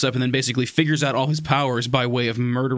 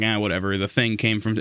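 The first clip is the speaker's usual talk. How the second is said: deadpan; 4 semitones lower than usual. Retold or imitated. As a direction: sound utterly unimpressed. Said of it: "deadpan the whole time".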